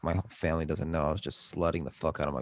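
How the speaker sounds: flat TikTok text-to-speech voice; robot voice. Retold or imitated. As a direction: read it like an app's computer narrator. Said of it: "the fucking robot voice will be like".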